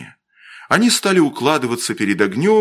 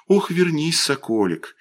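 pleading call; 6 semitones higher than usual. Retold or imitated. Феклиста calls her son back from the river, gently pleading. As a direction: coax a child back, falling away at the end. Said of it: "станет его кликать".

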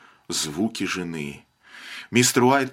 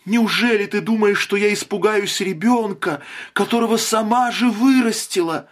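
high, strained, insistent cries; frantic; 9 semitones higher than usual. A narrator's reading. Frantic mother rails at husband, voice high and strained. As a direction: rail at him, wild with grief.

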